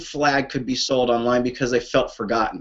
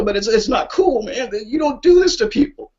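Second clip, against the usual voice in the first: higher, choked-up and upset; pouring out real feeling for the vets; real emotion pushing the voice higher; emotional; 5 semitones higher than usual. Real, not acted. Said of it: "So I'm sorry to get emotional".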